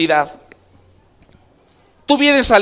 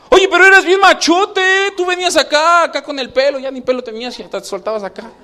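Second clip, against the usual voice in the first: mocking onlooker; 5 semitones higher than usual. Mocking a once-macho father.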